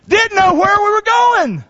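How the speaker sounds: high, slow puzzled voice; mild confused teenager. Retold or imitated. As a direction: wonder aloud where you're headed. Retelling confusion.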